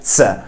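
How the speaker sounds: Tse, one crisp ts burst; German Z sound. Shown as a demonstration. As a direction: say Tse as tight t-s. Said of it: "That's the Z sound".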